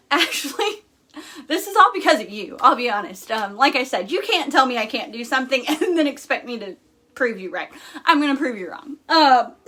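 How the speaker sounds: teary half-laugh; emotional laugh; laughing through tears. Real, not acted. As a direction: laugh while choking up a little. Laughing and tearing up.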